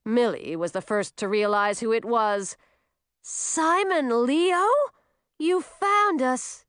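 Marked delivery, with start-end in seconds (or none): 3.2-6.7 excited greeting. Acted. Milly greets the returned troll.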